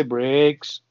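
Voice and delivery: put-on "brakes" drawn out in a northern English accent; light northern English imitation of "brakes". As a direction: lengthen the s of "brakes" the way a northern English speaker would. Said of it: "they say".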